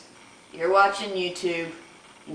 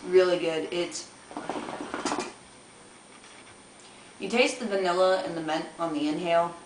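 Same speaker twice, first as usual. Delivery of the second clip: talking around pipe at lips; exhaling smoke while talking; speaking with hookah mouthpiece. Real, not acted. Seen 0: hookah mouthpiece at lips throughout; exhales smoke mid-phrase.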